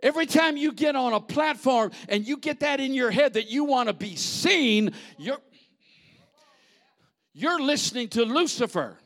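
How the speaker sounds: loud high-pitched preacher's warning; preaching shout. Real, not acted. Preacher warning the church about wanting fame, shouting.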